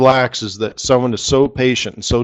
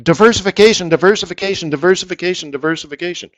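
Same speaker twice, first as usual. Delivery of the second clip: mocking mantra; 5 semitones higher, faster than usual. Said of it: "repeated mantra".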